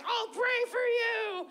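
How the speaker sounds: lightly pious mother; understated pious reply; mock pious mom. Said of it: "she was all like".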